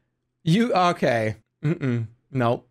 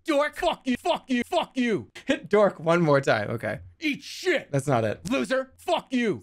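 higher, softer repeated insults; quiet NPC insults; 3 semitones higher, 3 dB quieter than usual. Acted. Streamer reruns GTA NPC insults, higher and softer. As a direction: rattle off insults under the breath. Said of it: "this is what you like me to do".

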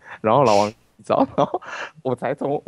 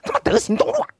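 much higher, squeaking through laughter; high-pitched laughing disbelief. Real, not acted. Laughing at living on a street named after virtue.

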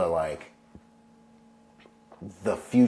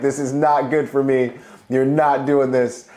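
imitating girlfriend; 7 semitones higher, 9 dB louder, slower than usual. Girlfriend refusing his plan.

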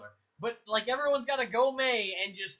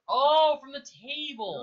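excited cry; 7 semitones higher, 10 dB louder, slower than usual. Real, not acted. Teammate steals the shot.

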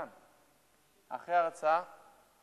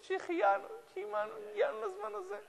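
moved blessing. Acted. Emotional blessing after embrace.

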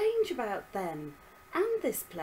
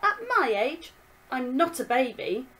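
put-on angry girl; 3 semitones higher, 7 dB louder than usual. Daughter argues back.

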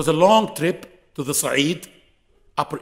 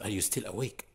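hushed night call; 7 semitones lower, 11 dB quieter than usual. Retold or imitated. Sheikh whispering at night.

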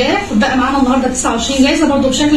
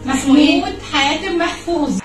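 hyped giveaway announcement; 3 semitones higher, much slower than usual. Real, not acted.

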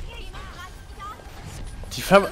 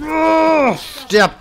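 excited shout; 12 semitones higher, 6 dB louder than usual. Real, not acted. Fight climax in game.

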